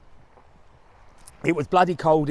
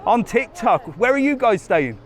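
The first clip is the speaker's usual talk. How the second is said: higher, louder, bubbly host voice for a stranger; cheery chat; 9 semitones higher, 6 dB louder than usual. Real, not acted. Vlogger asking a tourist to greet his followers, loud and cheery. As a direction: sell it like a friendly presenter.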